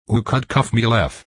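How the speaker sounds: lightly muffled, lisping "cuff" and "lef"; muffled speech. A narrator's reading. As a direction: mumble "Oo could cuff me lef" as if pressed into a wall. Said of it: "It came out sounding like".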